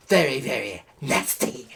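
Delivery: breathy mocking whisper. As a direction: hush it like a secret. Mocking whisper about elections.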